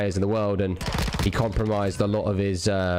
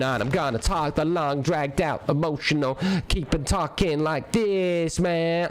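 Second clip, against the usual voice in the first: higher, slow, long dragged-out emotional talk; mocking entertainer voice; 5 semitones higher, slower than usual. Mocks a streamer's put-on voice, dragged out. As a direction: drag every word out, emotional. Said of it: "starts going".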